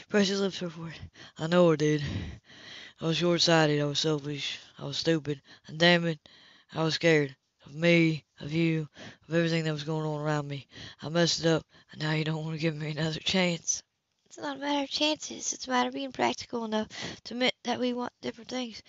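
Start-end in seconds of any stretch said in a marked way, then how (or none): 1.4-13.8 remorseful man. Acted. 14.3-18.8 quietly reasoning woman. Acted. Woman arguing softly.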